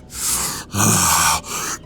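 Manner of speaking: long, heavy creature exhale; monstrous sigh. Acted. Transformed Walter pauses over his prey, heavy sigh. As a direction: breathe out slowly like a beast. Monster breathing between taunts.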